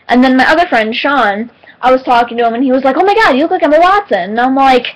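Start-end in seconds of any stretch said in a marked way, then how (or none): 3.0-4.3 imitated amazement. Friend's amazed remark acted out.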